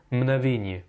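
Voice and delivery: mgnavenye said as "mnavenye", without the g; imitated dropped G. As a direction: drop the g in mgnavenye like the learner. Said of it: "Tu as oublié le gué". (mgnavenye sans le « g », imitant l'élève)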